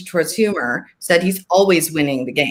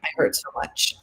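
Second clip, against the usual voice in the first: put-on hurting child; 7 dB quieter than usual. Child in pain at bedtime.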